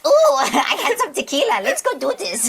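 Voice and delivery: hyped after tequila, ready for a tattoo; tipsy Raze. Acted. Raze giddy on tequila suggests a tattoo, laughing high. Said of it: "Ray's is like".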